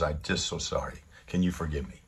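low, soft voicing of remorse; apologetic. Angry driver begging her pardon, low and apologetic. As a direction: ask forgiveness quietly, pitched low. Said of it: "he was very apologetic".

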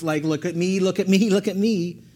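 rising, insistent repetition; insistent boasting. Acted. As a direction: pitch climbing with each plea for attention. Peter acted boasting to Jesus.

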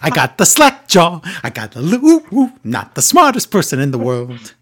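lightly voiced Swiss accent; Cesaro impression. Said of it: "Paul is right".

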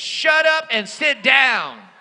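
blunt command. Retold or imitated. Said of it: "L B C translation".

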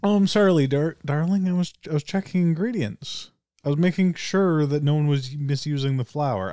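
flustered excuse, sweetened with darling; flustered old lady. Acted. Old lady caught by Buck, flustered and fast-talking. Caught snooping, talks her way out.

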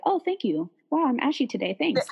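high, falsely pleased thanks; mock gratitude. Imagined reply to being called ashy, mock-grateful. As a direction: gush as if flattered, joking.

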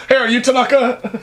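mock searching. Attacker searching the dance floor, acted.

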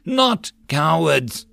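slow, rousing call to the man beside him; urging rally cry. Acted. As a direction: start the chant to stir them. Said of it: "urged him then".

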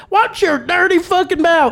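high, loud scolding; mock outraged mother scolding; scolding mom. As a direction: snap at him like an angry mom. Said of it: "She goes".

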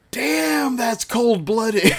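high, slow quip through a laugh; laughing heckler quip. Retold or imitated. Friend Luke punning at the screen, high laughing quip. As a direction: drawl out the pun, cracking up. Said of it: "my friend Luke just goes".

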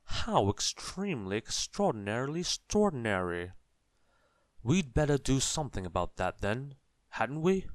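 high, loud excited wizard; bubbling with eager amazement. A narrator's reading. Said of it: "exclaimed the wizard".

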